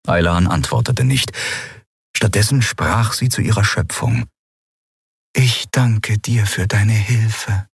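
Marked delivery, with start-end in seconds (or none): 5.3-7.7 slow, gentle gratitude; tender thanks. Acted. (sanfter, langsamer Dank)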